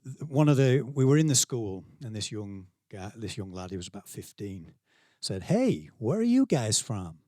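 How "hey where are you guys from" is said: imitated San Diego teen, drawn out; San Diego accent. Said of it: "do a San Diego accent".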